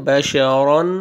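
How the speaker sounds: बशरन with a thick, full-mouthed "ro" for the ra; heavy ra. Shown as a demonstration. Teacher modelling बशरन for learners, ra pronounced thick and heavy. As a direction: thicken the r and its vowel in बशरन towards "ron". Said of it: "रा को मोटा करके पढ़ेंगे".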